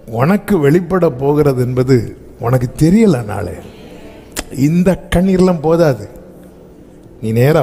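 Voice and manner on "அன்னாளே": low, soft call; a soft, low call to Hannah; tender call. Acted. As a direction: call her name gently.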